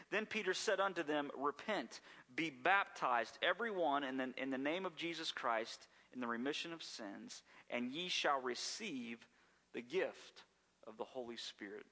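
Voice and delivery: deliberate reading, slowing on key phrases; scripture reading. Acted. Preacher reading Peter's call to repent, deliberate scripture reading.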